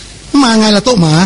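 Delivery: "โต๊ะหมา" run together as one name; slow question with no break between "โต๊ะ" and "หมา"; no pause. Retold or imitated. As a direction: join "โต๊ะ" straight onto "หมา". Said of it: "ไม่เว้นวรรค".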